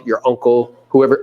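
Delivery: usual speaking voice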